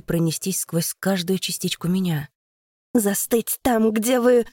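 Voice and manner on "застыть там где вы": power command. Acted. Deka commands with her voice.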